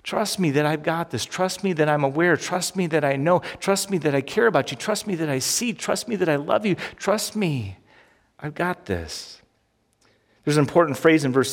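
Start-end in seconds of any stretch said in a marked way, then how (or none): 0.0-9.4 gentle voice of God. Acted. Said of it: "God says".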